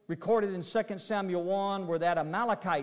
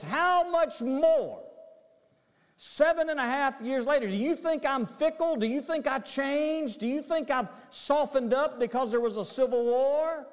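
high, loud, indignant royal rebuke; David's rebuke; 7 semitones higher, 3 dB louder than usual. Retold or imitated. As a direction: preach David's anger, rising high. David confronts the murderers.

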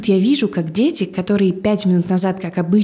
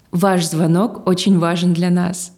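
customer service voice; slower than usual. Retold or imitated. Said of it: "она говорит абсолютно великую фразу".

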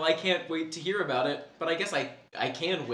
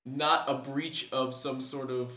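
smarmy cult leader; 2 semitones lower than usual. Acted. Acting a cult leader's creepy pitch.

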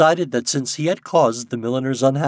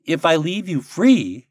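slow, raised, louder character voice; puzzled Nuke; 8 semitones higher, 7 dB louder, slower than usual. A narrator's reading. Popopo puzzled, reasoning with the birds. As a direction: weigh it up slowly, lightly acted. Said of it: "he said".

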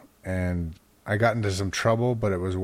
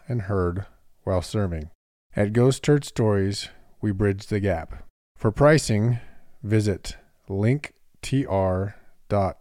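ad read. Acted. Host reads the promo spot for listeners, ad read. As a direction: read it like a podcast sponsor spot.

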